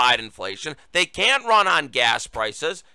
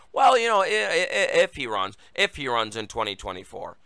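mocking Kamala Harris; 5 semitones lower than usual. Host mocks Harris hedging on Biden running, stammering. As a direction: stutter "i-, i-, i-" then mutter the hedge low. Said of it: "Kamala Harris ... was saying".

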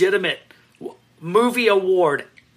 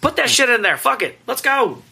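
hyped shout; 9 semitones higher, 4 dB louder than usual. Real, not acted. Hyping up Arnold.

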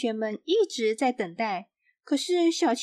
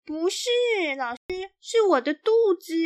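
put-on girl's protest; 7 semitones higher than usual. A narrator's reading. Xiaoqi insists to her teacher in a high girl's voice. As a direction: insist like an embarrassed little girl. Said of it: "小琪回答".

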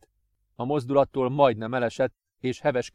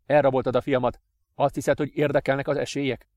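louder, desperate father confronting the captor; defiant father; 3 semitones higher, 4 dB louder than usual. Acted. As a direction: throw the question back at him.

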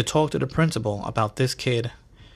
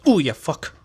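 startled curse; 4 semitones higher, 5 dB louder than usual. Retold or imitated. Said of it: "random curse".

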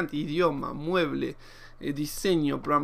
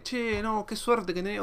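higher-pitched mock grumble; imitated complaining; 4 semitones higher, slower than usual. People griping at him about his luck, imitated complaint. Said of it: "ver gente quejándose o diciéndome".

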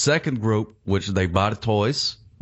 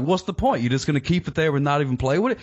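higher-pitched imitation of a looking-down collector; mock disdain; 6 semitones higher than usual. One kind of collector looking down on another, mock disdain. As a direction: mimic their scornful questioning. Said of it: "they look down on the people".

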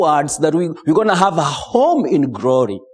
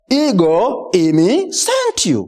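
solemn voice of God; 6 semitones higher than usual. Retold or imitated. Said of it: "In Greek, that would be".

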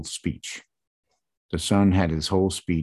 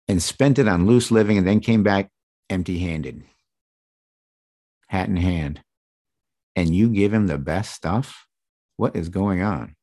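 put-on older brother voice. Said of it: "I'm putting words in his mouth".

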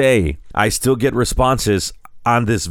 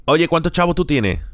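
higher-pitched Puerto Rican Spanish question; Puerto Rican accent; 6 semitones higher, faster than usual. Shown as a demonstration. Showing how a Puerto Rican asks about money, Puerto Rican accent. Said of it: "okay, so Puerto Rican".

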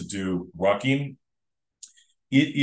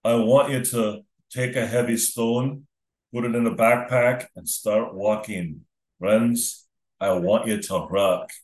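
lightly put-on Scottish accent; attempted Scottish accent. Podcast host challenging friends to ruck, attempted Scottish accent. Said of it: "I tried to do a Scottish accent".

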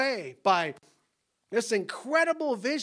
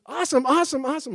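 louder mock barista gushing; breezy barista; 5 semitones higher, 6 dB louder, much faster than usual. Barista hearing the son is eight, lightly voiced breezy gushing. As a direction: gush awesome like a cheery barista. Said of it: "barista replies".

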